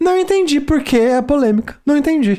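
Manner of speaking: patronizing, talking-down tone. The speaker announces a condescending tone to the others, then uses it. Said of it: "E vou falar num tom condescendente".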